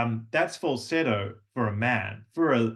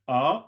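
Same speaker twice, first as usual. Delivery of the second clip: delighted ah; 3 dB louder than usual. Shown as a demonstration. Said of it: "Very good".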